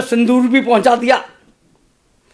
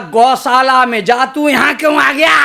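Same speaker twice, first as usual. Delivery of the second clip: angry father's yell; 2 semitones higher than usual. Acted. Girl's father driving the boy off with a stick, mock shouting. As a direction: bark like a furious girl's father.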